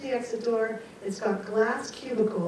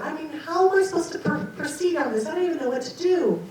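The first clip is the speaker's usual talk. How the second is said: high, loud, half-laughing plea to the unseen; calling up to heaven, laughing and frantic; exasperated calling out; 5 semitones higher, 8 dB louder than usual. Retold or imitated. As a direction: demand that the voice name itself. Pleading aloud with unseen voices.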